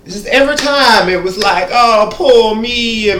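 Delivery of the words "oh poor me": mock whine. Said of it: "tired of listening to her whine".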